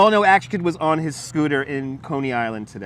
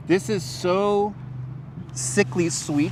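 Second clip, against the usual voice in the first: sickly sweet disgust; 4 semitones higher, 4 dB quieter, much slower than usual. Real, not acted. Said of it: "this is how I know I'm getting old".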